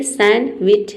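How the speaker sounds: सैंडविच in two parts, "san-wich", no D; silent D. Shown as a demonstration. Teacher demonstrates not pronouncing D, silent-D model. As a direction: go straight from N to W in सैंडविच. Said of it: "डी को हम pronounce नहीं करेंगे".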